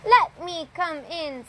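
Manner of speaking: high sly wolf calling. A narrator's reading. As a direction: coax the pig like a sneaky wolf. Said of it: "said the wolf".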